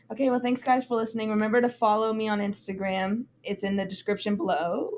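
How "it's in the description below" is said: voice crack. Real, not acted. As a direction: voice cracking on the last word. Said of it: "Ooh, voice crack".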